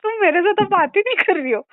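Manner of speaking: high, loud, grumbling grandpa voice; grandfather's complaint. Retold or imitated. Medium relays grandfather left standing, loud high grumble. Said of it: "बोल रहे".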